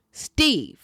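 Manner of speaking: high, whiny call of the name; drawn-out witchy whine; cartoonish whine. A narrator's reading. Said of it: "in a whine, her voice high, trembling, and cartoonish".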